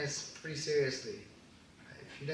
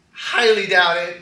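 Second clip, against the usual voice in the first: ordinary talk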